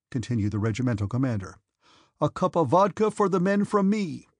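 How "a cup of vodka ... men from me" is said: louder, higher call to the troops. A narrator's reading. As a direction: call out so the whole company hears. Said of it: "so that the soldiers could hear".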